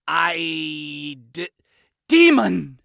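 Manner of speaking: loud sudden blurt; blurted shout. Acted. Adam blurts confession.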